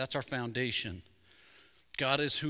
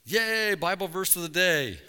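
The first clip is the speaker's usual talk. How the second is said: high, loud mock-excited "yay"; playful, raised-voice celebration; mock cheer; 4 semitones higher, 4 dB louder than usual. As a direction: cheer it like a jokey jingle. Joking cheer after phone interruption.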